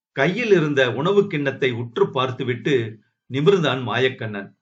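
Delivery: ordinary delivery, nothing marked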